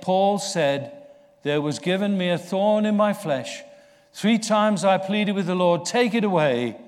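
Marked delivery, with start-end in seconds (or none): 1.4-6.8 Paul's plea. Acted. Preacher voices Paul's plea.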